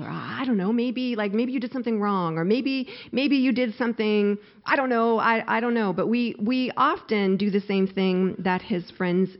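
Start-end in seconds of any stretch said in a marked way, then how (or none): 0.1-5.9 higher-pitched, uncertain imitation of a comforter; mock-hesitant speculation; tentative hedging. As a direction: hedge and backpedal as you suggest it.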